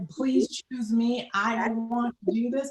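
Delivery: mildly acted enthusiastic kid, stretching the words; eager child. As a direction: beg like a keen pupil with a hand straight up. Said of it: "I was an enthusiastic".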